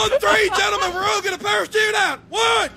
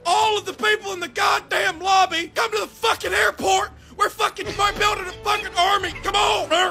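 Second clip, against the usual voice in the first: drill sergeant. Pretend. Drill sergeant rallying players.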